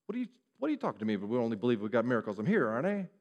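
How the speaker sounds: hammed-up retort hurled back quickly; indignant argument. Official arguing back at Jesus, mock indignant. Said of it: "could have argued with Jesus".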